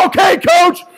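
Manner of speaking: high, loud strained reply; strained shout. Retold or imitated. Lifter answering coach mid-set, loud strained shout. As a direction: shout it back through the effort.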